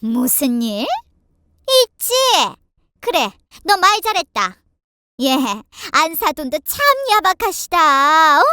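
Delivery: indignant tirade with loud bursts; fuming mother-in-law. A narrator's reading. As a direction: rant at the family, full of outrage. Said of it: "눈에 화가 가득해서는 씩씩거렸고". (씩씩대며 따지는 시어머니)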